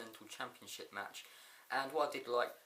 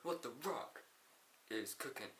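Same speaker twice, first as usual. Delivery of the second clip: wrestler catchphrase impression; 12 semitones higher, 4 dB quieter than usual. The Rock interrupts with his catchphrase, mock showboating. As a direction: stretch out the hero's famous line.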